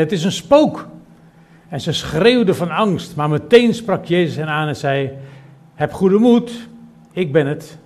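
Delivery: plechtig en luider voorgelezen Schriftgedeelte; Bijbellezing. Acted. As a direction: lees de tekst voor als voor een gemeente. Leest Bijbelgedeelte voor. (voorgedragen Bijbeltekst)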